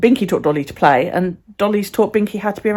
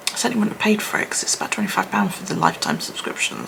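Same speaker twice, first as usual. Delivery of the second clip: whisper; 7 dB quieter, faster than usual. Real, not acted.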